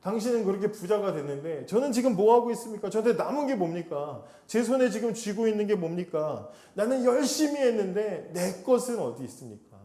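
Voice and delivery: rising indignant protest, pitch climbing; arguing, demanding. Retold or imitated. Jacob protesting to his uncle, indignant and rising. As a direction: pour out years of grievance at the uncle. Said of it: "따지는 거예요".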